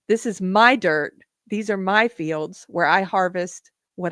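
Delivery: earnest recital, moved by the words; heartfelt lyric reading. Acted. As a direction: read it like it's your own land.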